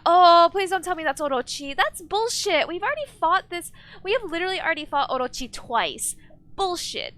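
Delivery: loud, high outraged outburst; indignant rant. Real, not acted. Streamer protesting a repeated boss fight, indignant rant. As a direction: rant in real disbelief, pitch up. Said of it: "I started to, like, rant".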